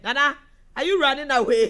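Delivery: laughing through the question; can't stop giggling while asking. Real, not acted. Laughing as she reads a comment aloud. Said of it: "it is the laughing for me".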